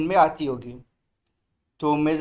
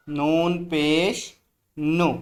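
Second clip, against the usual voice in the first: slow recitation; slower than usual. Shown as a demonstration. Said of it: "ज़ोर से बोलें".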